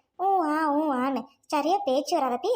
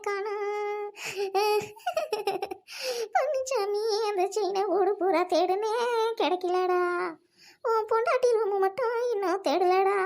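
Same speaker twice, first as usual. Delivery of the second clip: staged wailing; 3 semitones higher than usual. Pretend. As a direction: wail over the lost chain for show. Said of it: "ஐயோ அம்மான்னு கத்தாம கண்டுபிடிக்க முடியுமா?".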